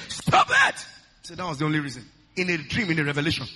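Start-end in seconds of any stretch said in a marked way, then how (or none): 0.1-0.8 shouted stop. Retold or imitated. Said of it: "I shouted".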